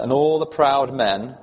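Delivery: "proud" picked out with emphasis; reading aloud, weight placed on "proud"; stress on "proud". Shown as a demonstration. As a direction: lean on the word "proud". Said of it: "emphasis on the word proud".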